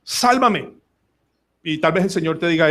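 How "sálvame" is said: high-pitched plea without full volume; mild cry of rescue, repeated after a pause; crying out to God. Acted. Preacher acting his daily cry to the Lord, crying out. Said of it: "todos los días debo gritar".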